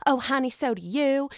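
put-on sweetly sassy Southern accent. Lisa answers Sutton back, put-on Southern accent. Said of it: "She's going all Southern accent with Sutton".

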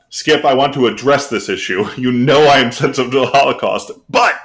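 lightly voiced sports pundit, emphatic; Stephen A Smith. Reading a parody meme to Skip, lightly imitated pundit bluster. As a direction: address the issue with mock gravity. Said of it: "Stephen A Smith meme".

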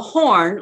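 "horn" drawn out and punched; punched name. Shown as a demonstration. Coach showing how to paint the name, punched "horn". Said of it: "like that".

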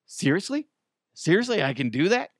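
high, gasping eagerness; mock eager disbelief. Young officer told he may shoot drones, eager disbelief. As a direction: ask it like you can't believe your luck. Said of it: "You're like".

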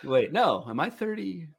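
suddenly realising he doesn't know his own age; confused surprise. Real, not acted.

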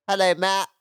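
high, strangled mock greeting of Steve; weird awkward greeting. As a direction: squeak out an awkward hello like a starstruck fan. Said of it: "You just sounded so weird there".

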